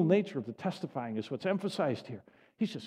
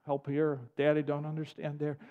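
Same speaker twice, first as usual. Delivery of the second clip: tender prayer; 2 semitones lower, 4 dB quieter than usual. Retold or imitated. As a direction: call out gently like a trusting child. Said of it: "crying out".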